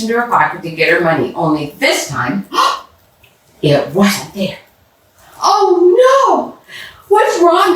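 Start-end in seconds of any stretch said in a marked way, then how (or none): 3.0-4.6 sharp gasp, then slow dismay; startled gasp. Acted. Mashonda reaching into an empty pocket, gasp of dismay. 5.4-6.6 high, loud cry of alarm; dismayed cry. Acted. Mashonda discovering her money gone at the store, high alarmed cry. 7.1-7.7 high, loud, concerned; worried question. Acted. Mrs Kim hearing Mashonda cry out, worried high question.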